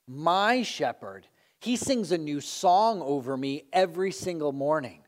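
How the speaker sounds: proud, emphatic listing of feats; boasting sheep. Acted. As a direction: brag on with weighty stress on "my shepherd". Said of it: "He's boasting".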